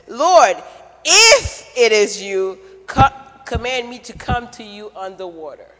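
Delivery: loud call that eases off; Peter calling out. Retold or imitated. Peter calling to Jesus across the dark water, loud then easing. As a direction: shout to him across the water, then ask.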